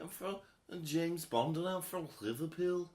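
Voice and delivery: badly faked Scouse accent; bad Liverpool accent. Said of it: "That was a really terrible accent".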